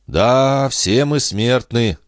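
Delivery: high-pitched, slow moralizing tone; preachy moralizing. A narrator's reading. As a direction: spell it out like a moral lesson. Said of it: "нравоучительно заметил Пету".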